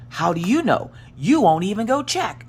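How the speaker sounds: high, indignant comeback to a sister; retold exasperated challenge. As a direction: re-enact an exasperated sibling challenge. Heated quarrel with sister.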